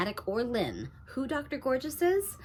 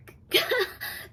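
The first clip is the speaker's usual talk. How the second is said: sob; 3 dB louder than usual. Acted. Mother breaking down over addict daughter.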